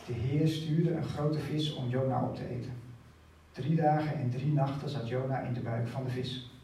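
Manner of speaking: solemn scripture read to the church. Acted. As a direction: read the passage out to the congregation. Reads Jona passage aloud.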